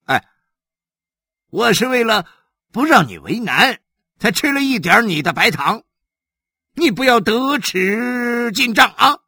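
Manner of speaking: offended official snapping at Xu Sanguan; displeased. Acted. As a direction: scold him sharply for pushing his luck. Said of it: "李血头不高兴了，他收起脸上的笑容说".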